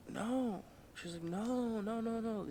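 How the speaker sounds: high, drawn-out mock refusal; mock protest. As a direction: imitate her refusing in a high, soft voice. Acts out her shocked refusal.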